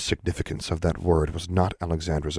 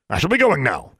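higher put-on official voice; posing as a man; 7 semitones higher, 4 dB louder than usual. A narrator's reading. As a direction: take formal leave in a put-on voice. Disguised Alexandra excuses herself.

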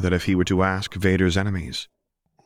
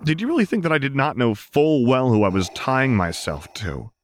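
righteous anger; 8 semitones higher than usual. A narrator's reading. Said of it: "heart blazing bright with righteous anger".

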